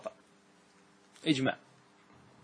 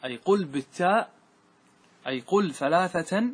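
قل punched higher and louder, slowing on أي قل ثلاثة; emphatic explanation; 4 semitones higher, 6 dB louder than usual. Shown as a demonstration. Teacher driving the rule home to students, stressing قل. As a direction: hammer home the word قل. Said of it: "أي انطق كلمة ثلاثة بالتاء".

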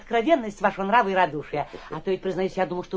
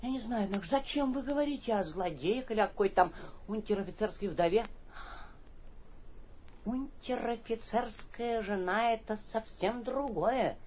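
sheepish mumbling; 2 semitones lower, 10 dB quieter than usual. Acted. Guest backs down, muttering.

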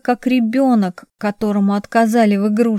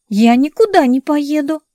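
a rising, louder cry of refusal; defiant outburst; 6 semitones higher, 4 dB louder than usual. A narrator's reading. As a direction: snap back in refusal. Sister refuses, jumping up.

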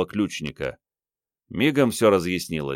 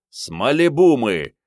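raised, higher voice, short of a full yell; раздражённый выкрик; 6 semitones higher, 5 dB louder than usual. A narrator's reading. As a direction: call it out in exasperation. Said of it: "заорал Андрей". (громко и раздражённо, но без надрыва)

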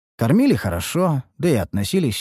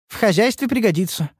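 enthusiastic; 10 semitones higher than usual. Acted. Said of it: "с неким воодушевлением и вдохновением".

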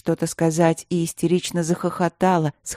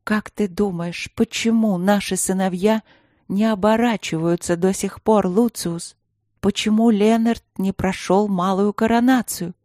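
trembling voice; 3 semitones higher than usual. Acted. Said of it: "дрожащим голосом произнесла".

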